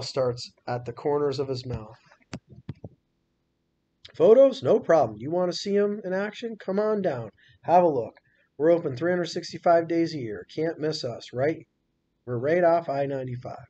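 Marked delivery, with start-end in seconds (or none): 4.1-13.7 higher, louder, selling hard on the phone; a showman talking up his attraction; pushy mall owner turning on the charm, high and eager; eager salesman Mac. Acted. Mac pitching his zoo on phone.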